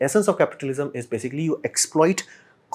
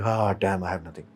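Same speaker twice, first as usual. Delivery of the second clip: mock despair; 4 semitones lower, 5 dB quieter than usual. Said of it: "I'll be like".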